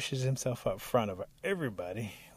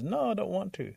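higher, whiny-proud refusal; fussy refusal; 4 semitones higher, 4 dB louder than usual. Acted. Rabbit refusing Bear's call to dig, fussy. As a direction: turn the work down fussily.

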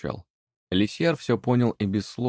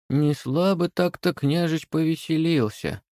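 lightly voiced house spirit; 8 semitones higher than usual. A narrator's reading. House spirit looks around.

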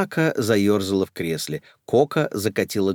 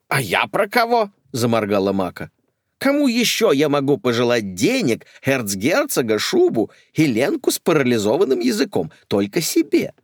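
indignant; 5 semitones higher, 5 dB louder than usual. Acted. Indignant lady protests.

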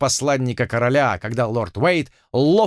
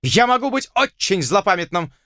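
higher, petty nobleman's threat; pompous warning, pitched up; threatening lord; 8 semitones higher than usual. A narrator's reading. Lord threatens Blood, higher pompous voice.

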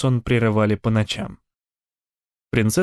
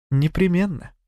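higher, syrupy sweet voice; sweetly passive aggressive; 6 semitones higher than usual. Acted. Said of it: "сладким голосом откликнулась Сарин".

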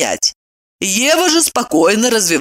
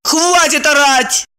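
snapping; 9 semitones higher, slower than usual. A narrator's reading. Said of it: "прикрикнула".

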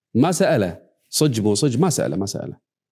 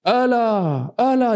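high, ringing attention call; herald's high hail; 7 semitones higher, slower than usual. Retold or imitated. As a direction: rise sharply to grab the crowd. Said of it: "فأخذ يصرخ جميل".

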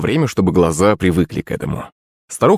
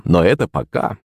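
plain reading voice

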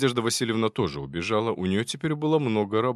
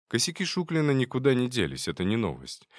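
plain reading voice

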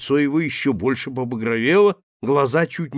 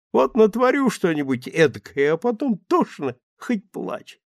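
put-on rueful, higher drunken voice; a sobering drunk owning up; sheepish drunk; 8 semitones higher, 3 dB louder than usual.

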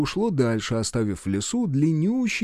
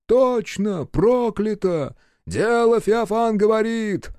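much higher, loud panicky clamour; clamouring crowd; 8 semitones higher, 4 dB louder, slower than usual. Acted. Frightened soldiers clamouring to turn back, panicky. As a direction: cry out in alarm together. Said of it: "загомонили разом со всех сторон".

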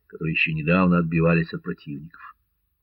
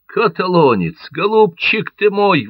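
much higher, louder joyful cry; cheerful exclamation; 11 semitones higher, 6 dB louder than usual. A narrator's reading. Кармо весело приветствует друга. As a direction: Carmaux happily greets his wounded friend. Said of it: "воскликнул весело Кармо".

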